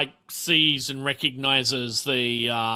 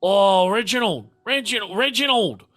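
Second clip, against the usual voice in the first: higher, sing-song repeating of Reginald; fond character voice; 6 semitones higher, 3 dB louder than usual. Acted. To Reginald, an affectionate higher character voice. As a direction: coo the name up and down. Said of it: "looks it up and down and is like".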